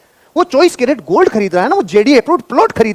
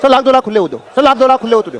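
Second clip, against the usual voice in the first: confident ask; 4 semitones higher than usual. Shown as a demonstration. Coach drilling the sales line for trainees, bold. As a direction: deliver it like a punchy dialogue. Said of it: "मुझे बोलो".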